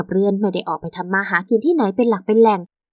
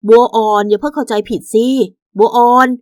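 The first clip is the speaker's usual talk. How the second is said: louder, insistent husband; urgent pleading; 6 dB louder than usual. Acted. Husband caught with another woman begs wife, urgently. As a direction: plead loudly to be heard out.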